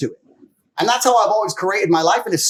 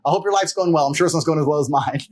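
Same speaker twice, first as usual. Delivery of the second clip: ordinary talk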